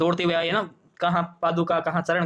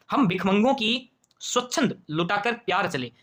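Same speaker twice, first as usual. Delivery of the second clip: poem recitation; slower than usual. Acted.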